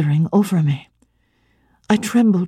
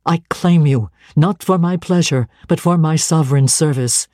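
firm, commanding, a touch lower; lightly voiced stern minister; 3 semitones lower than usual. St. John tells Jane she must be his wife, lightly lower and commanding. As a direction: claim her with calm, unbending certainty.

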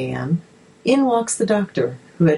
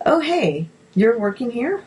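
put-on South African accent; 6 semitones higher than usual. A narrator's reading. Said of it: "he responded in a gentle South African accent".

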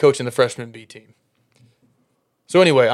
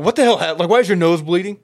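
surprised; 6 semitones higher, 5 dB louder than usual. Retold or imitated. Coach sees bloody nose.

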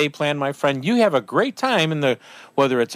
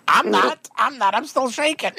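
a touch of shaky excitement, higher; shaken excitement; 10 semitones higher than usual. Retold or imitated. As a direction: still jittery from the shots. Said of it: "I'm like".

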